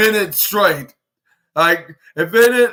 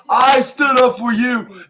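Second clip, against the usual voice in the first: slow, higher-pitched mock protest; indignant retort; 5 semitones higher, slower than usual. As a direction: imitate an aggrieved wrestler protesting. Retold wrestler's indignant protest.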